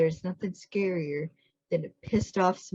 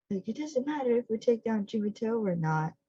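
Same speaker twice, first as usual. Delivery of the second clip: retold yell; 6 semitones higher than usual. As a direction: imitate his outburst at a higher pitch. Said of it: "his yell is".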